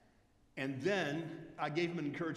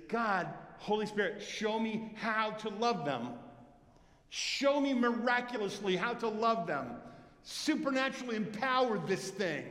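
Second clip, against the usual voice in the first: sample prayer; 3 semitones higher than usual. Shown as a demonstration. Pastor shows the congregation how to pray, earnest prayer. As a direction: pray it with growing fervour. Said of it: "what you ought to be praying is".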